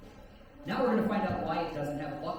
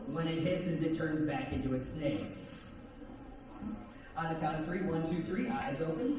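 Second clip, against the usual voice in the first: hypnotic suggestion. Acted. Hypnotist induction again.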